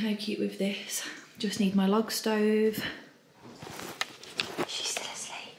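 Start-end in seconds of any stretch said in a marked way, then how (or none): 4.7-5.6 hushed whisper. Real, not acted. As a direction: whisper so she stays asleep. Whisper near sleeping baby.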